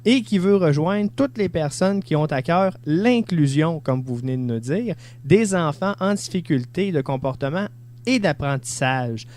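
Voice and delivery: measured read-aloud voice with lifted key words; formal radio-host reading; reading a blurb aloud. Acted. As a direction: read out a book description clearly, in deliberate phrases. Reads the book description aloud.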